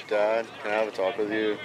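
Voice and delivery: a hint of a Cuban accent; lightly put-on Cuban accent. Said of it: "that's my Cuban voice".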